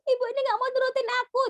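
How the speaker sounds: high, fast sobbing complaint; crying toddler. Acted. Toddler sobbing at mum who won't give in, high fast whine. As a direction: rush it out through tears like a small child.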